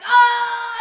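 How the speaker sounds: loud high whoop; group cheer. Retold or imitated. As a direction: whoop like a rowdy crowd. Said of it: "they're all like".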